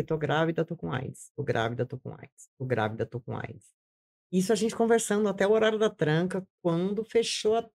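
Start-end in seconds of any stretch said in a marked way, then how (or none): 0.0-3.7 fading murmur, softer each time; stunned woman repeating her news in a cell; numb repeating. Retold or imitated. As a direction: say it over and over, sinking quieter. Dazed repeating of her diagnosis.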